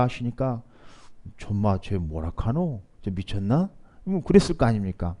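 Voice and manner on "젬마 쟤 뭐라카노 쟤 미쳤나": slow, softer Gyeongsang aside; a baffled fisherman grumbling in Gyeongsang dialect; rough Gyeongsang dialect. Acted. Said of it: "어부 사람들의 투박한 경상도 사투리로". (낮춰 말하는 투박한 경상도 사투리)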